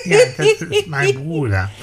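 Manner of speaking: high, loud laughing words. Acted. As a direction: laugh it out proudly. Proud brother reveal, laughing.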